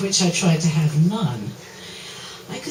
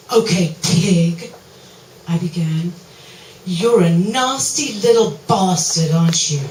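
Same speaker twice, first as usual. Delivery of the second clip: stern scolding; 6 dB louder than usual. Acted. Playing dominatrix scolding client.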